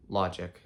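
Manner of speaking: logic stressed as LO-gic; stress on first syllable. Shown as a demonstration. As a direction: land on LO in logic. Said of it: "first syllable is getting stressed".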